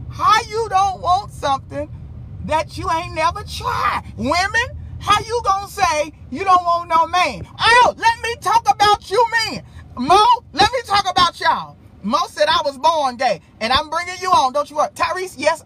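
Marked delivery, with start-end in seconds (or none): 0.1-4.0 fired-up sermon shout; preaching shout. Real, not acted. 7.6-11.8 higher, louder call to the crowd; rally the room; fired-up callout. Real, not acted. Calling out the men.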